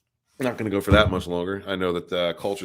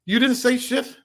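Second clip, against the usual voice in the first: surprised; 5 dB louder than usual. Real, not acted. Reacting to chat complaint.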